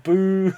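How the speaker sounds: drawn-out pantomime boo; imitated booing. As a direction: boo like a heckler in the audience. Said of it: "like this".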